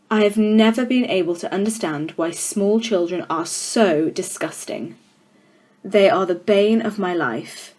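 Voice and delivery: a hint of a contemptuous headmistress; stern headmistress. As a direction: loom over the class, mildly menacing. Trunchbull speaks to class.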